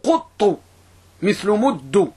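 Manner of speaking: "قط" as quttu, rhyming with "مد" as muddu; ضم وتشديد. Shown as a demonstration. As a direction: round the vowel after ق in "قط" and double the ط. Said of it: "ضم هنا أوله أو شد". (نطق "قط" بضم القاف وتشديد الطاء مثل "مد")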